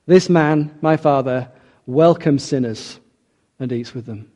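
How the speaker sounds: slow, disdainful quote fading to almost nothing; mock sneering Pharisee. Preacher voicing the grumbling older son, slow contempt. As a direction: sneer out the complaint and let it die away. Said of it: "You can almost hear".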